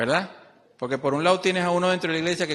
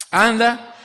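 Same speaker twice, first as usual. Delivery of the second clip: loud, raised, urgent "anda"; louder command from God; 6 semitones higher, 6 dB louder than usual. Acted. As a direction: push "anda" out louder as God's order.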